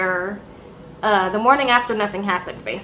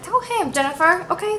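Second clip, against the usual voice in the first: cheering; 7 semitones higher than usual. Retold or imitated. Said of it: "And I was like".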